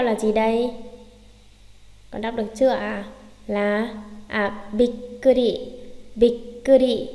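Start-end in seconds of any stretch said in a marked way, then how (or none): 4.7-7.1 "bikkuri" with a held double k; "bikkuri" with a clear catch before kuri; geminate stop. Shown as a demonstration. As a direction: cut off bik, pause, then falling "kuri" in "bikkuri". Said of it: "đều đọc nặng xuống".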